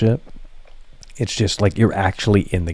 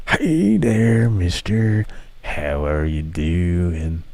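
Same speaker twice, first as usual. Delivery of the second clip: creepy greeting; much slower than usual. Pretend. Streamer greeting a new viewer in a creepy drawn-out voice.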